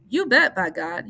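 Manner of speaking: a big delighted exclamation; happy cry. A narrator's reading. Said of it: "he cr-, cried happily".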